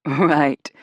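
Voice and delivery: loud, laughing disbelief; laugh, then drop the word in. A narrator's reading. Celine disbelieving Jill on the phone, laughing. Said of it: "she said with a laugh".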